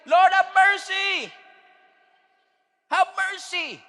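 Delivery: high, loud, slow cry; desperate prayer shouted to heaven; shouted plea. Acted. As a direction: shout for mercy with everything. Congregation's cry for mercy.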